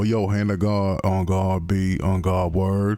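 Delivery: lightly put-on New York street slang; mock New York slang patter. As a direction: rattle off the New York slang phrases casually. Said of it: "speaking in that accent".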